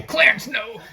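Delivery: high, laughing shout of the line; laughing movie quote. Retold or imitated. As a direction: blurt the line out through a laugh.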